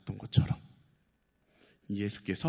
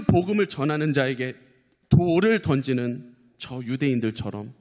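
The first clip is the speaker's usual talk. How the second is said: pleading public prayer, phrase by phrase; fervent prayer; 6 dB louder than usual. Real, not acted. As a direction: lead the congregation in earnest prayer. Leads closing prayer.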